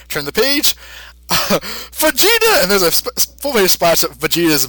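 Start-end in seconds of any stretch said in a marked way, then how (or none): 1.9-2.6 dramatic reveal. Retold or imitated.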